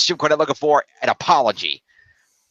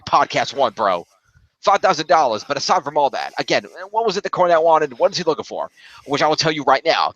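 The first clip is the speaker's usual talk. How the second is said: put-on slipping in and out of a Brooklyn accent; lightly put-on New York rant. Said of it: "I'm slipping out of it. Hang on".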